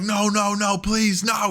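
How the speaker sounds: high whiny begging no; mock pleading. Fan acting out the better promo, high mock begging. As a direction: beg in a high mock whimper. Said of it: "could have just been like".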